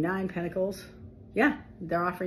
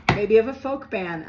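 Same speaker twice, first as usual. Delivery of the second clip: laughing; 4 semitones higher, 7 dB louder than usual. Real, not acted. Laughing aside.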